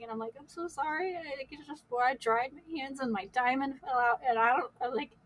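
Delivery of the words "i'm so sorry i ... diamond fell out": higher, hushed imitation of crying; soft mock-tearful apology; retold tearful apology. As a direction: apologize softly, as if through tears. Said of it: "and I'm crying".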